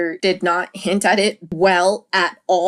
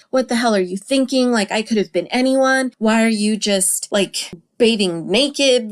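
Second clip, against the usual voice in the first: mock freak-out; 3 semitones higher than usual. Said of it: "he freaks out on her in the film".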